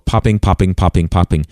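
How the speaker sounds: P's blasted straight into the bare mic; popping plosives. Shown as a demonstration. Demoing mic pops without a pop filter, hard plosives. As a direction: punch each P right into the mic. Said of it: "let me just show you".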